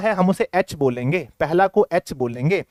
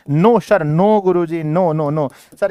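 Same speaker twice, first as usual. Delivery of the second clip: loud mock chorus of pupils; pupils refusing, imitated; 5 dB louder, much slower than usual. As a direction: call it out emphatically as the class, easing off. Voices pupils' emphatic refusal. (छात्रों की ज़ोरदार ना की नकल)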